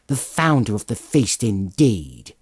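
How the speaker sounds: wife scoffing at the toast; indignant cry. Acted. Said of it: "cried Missus Cratchit, reddening".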